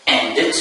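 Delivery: ENDED with final -ed as a T sound; final-ed option. Shown as a demonstration. Teacher quizzing students on the ending, first option with T. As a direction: close ENDED on a clipped T. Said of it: "Is it pronounced".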